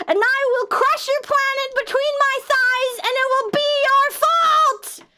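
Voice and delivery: loom over them like a giant; giant goddess. Acted. Giant goddess threatens planet.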